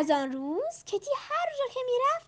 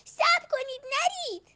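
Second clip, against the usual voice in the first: mild call out; 7 semitones higher, slower than usual. A narrator's reading. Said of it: "فریاد زد".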